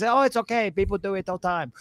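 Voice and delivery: light mock Korean accent for the airport guard; a mild imitation of a Korean guard's accent. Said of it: "I shouldn't talk like that".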